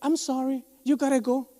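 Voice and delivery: lightly mocked American firing someone; American boss. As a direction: play the gringo boss firing him. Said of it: "le van a decir al americano". (jefe americano en inglés)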